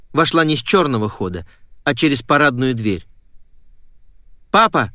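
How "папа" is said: high, urgent call. A narrator's reading. Girl coming home calls her father, calling out. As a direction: call out for Dad, pitched up. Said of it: "зову".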